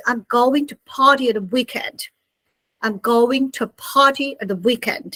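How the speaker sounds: British party with crisp t; British-style weekend sentence; British accent. Shown as a demonstration. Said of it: "So British people".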